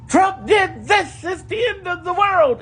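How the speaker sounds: imitating a panicking influencer, hammed-up; mock panicking influencer. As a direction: ham up the end-of-the-world panic. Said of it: "blue influencers grabbing your attention".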